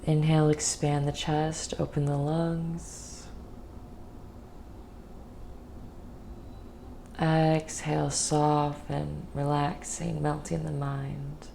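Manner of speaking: calm guided meditation voice with long pauses. Real, not acted.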